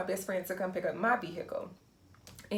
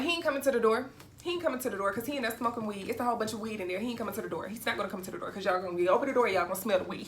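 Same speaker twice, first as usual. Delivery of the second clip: heated retort; much faster than usual. Retold or imitated. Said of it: "So I'm like".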